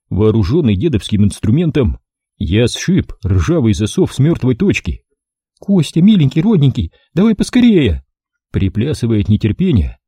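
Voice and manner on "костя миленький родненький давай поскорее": high whining plea; pitiful high female whine; whimpering plea. A narrator's reading. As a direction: whimper and beg him to hurry. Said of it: "жалобно проскулила она".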